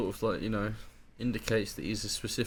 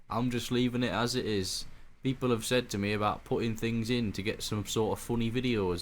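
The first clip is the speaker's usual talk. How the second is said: put-on Welsh accent. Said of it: "I read that last bit in his accent".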